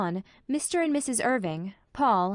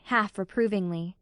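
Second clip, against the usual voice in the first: plain reading voice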